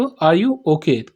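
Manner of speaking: very slow and deliberate; slow model sentence. Shown as a demonstration. Teacher slowly modelling the English for students. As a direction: lay out every word for the class. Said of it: "क्या बोलेंगे इसको".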